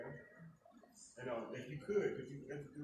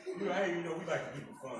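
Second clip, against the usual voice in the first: hype; 6 semitones higher, 6 dB louder than usual. Real, not acted. Host hyping the crowd.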